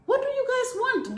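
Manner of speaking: high, loud demand; exasperated outcry. Real, not acted. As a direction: throw the question at them in frustration.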